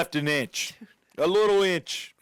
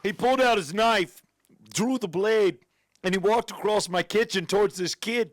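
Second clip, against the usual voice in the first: higher, theatrical fake Canadian accent; muddled put-on accent; 5 semitones higher than usual. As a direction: tell it in a bad Canadian accent, wandering. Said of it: "What the fuck accent is this?".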